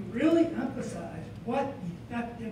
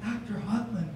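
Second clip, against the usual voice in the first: excited; 5 dB louder than usual. Retold or imitated. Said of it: "excitedly said".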